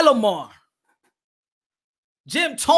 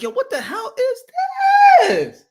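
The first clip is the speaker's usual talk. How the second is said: high, shouted outrage at the seats; hammed-up stadium rant; mock outraged yell; 7 semitones higher, 5 dB louder than usual. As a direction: yell it like a fed-up fan. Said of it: "I'm like".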